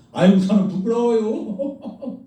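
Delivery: slow, laughing put-on humility; hammed-up humble sigh; mock false modesty. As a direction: parody a believer faking shyness. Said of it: "이런 거 진짜 웃기는 거야".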